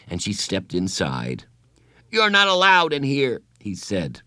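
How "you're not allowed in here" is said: put-on high, loud childish protest; angry objection. A narrator's reading. Boy objects to counselor entering bathroom, angry. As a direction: order them out in a high boy's voice.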